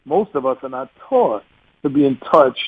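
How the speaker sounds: a light New York accent on "not taught". Shown as a demonstration. Guest jokingly slips into a light New York accent. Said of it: "That was my New York accent".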